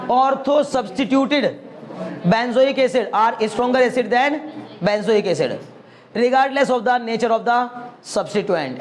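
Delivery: very slow, word by word dictation; teacher dictating a definition very slowly. Shown as a demonstration. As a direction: spell it out slowly so students can write.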